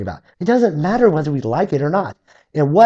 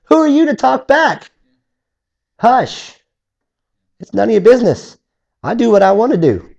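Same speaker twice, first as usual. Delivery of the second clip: voice of God; 7 semitones higher than usual. Acted. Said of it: "Sometimes he'll say".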